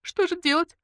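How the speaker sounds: high whimpering plea; whining. Acted. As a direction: whine it like a helpless girl. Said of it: "захныкала Ленка".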